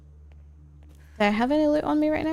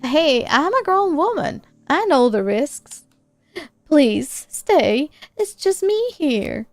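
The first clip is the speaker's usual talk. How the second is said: voicing Mom; 6 dB louder than usual. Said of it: "I can't do accents".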